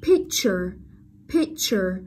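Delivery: picture with a clearly marked ch in -ture; ch sound. Shown as a demonstration. Teacher reminds students of the sound, picture with clear ch. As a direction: say "picture" as a model, CH distinct. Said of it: "các bạn nhớ, âm ch".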